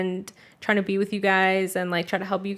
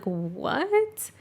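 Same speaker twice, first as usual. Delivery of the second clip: shocked what; 5 semitones higher, 5 dB quieter than usual. Retold or imitated. Dad shocked by news.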